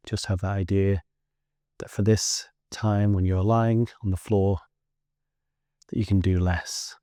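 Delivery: unhurried guiding voice with long pauses; guided relaxation. Acted. Teacher guiding listeners lying on the floor to let go, guided relaxation. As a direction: lead them gently through a body scan, leaving space between phrases. Leads a guided body scan.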